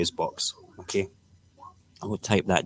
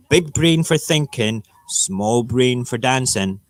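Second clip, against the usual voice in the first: mock lecture; 3 semitones higher, 3 dB louder, slower than usual. Real, not acted. Lecturing professor jokingly.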